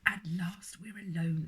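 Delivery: slow, hushed, hammed-up drama; dramatic whisper. A narrator's reading. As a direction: play it like a melodrama, slowly. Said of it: "said Laura in a dramatic voice".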